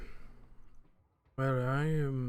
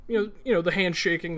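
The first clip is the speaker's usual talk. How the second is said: 1 mock schmoozing; 4 semitones higher, 5 dB louder, faster than usual. Senator schmoozing at the party.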